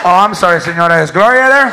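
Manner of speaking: loud, hasty apology; loud polite caller. Acted. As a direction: blurt an apology loudly.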